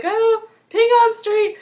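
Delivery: high, slow pleading cry; mock distressed plea. Recapper imitating the lost man asking for directions. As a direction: beg for the street name, dragged out. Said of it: "and they're like".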